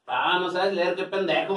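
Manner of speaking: teasing scorn; mocking insult. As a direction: sneer it like a bully. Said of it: "me dice el güey".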